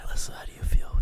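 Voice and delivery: ASMR whisper into the mic; breathy close whisper; right in your ear. Pretend. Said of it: "This is the A S M R hour".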